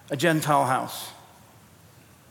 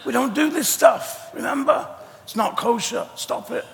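whiny Peter; 5 semitones higher, 4 dB quieter than usual. Acted. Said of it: "Peter's second refusal".

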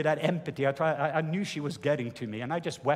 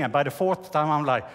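ordinary talk

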